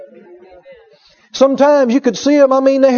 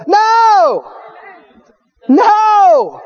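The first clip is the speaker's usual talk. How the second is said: emphatic shout; 9 semitones higher than usual. Real, not acted. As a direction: shout the refusal. Preacher refusing.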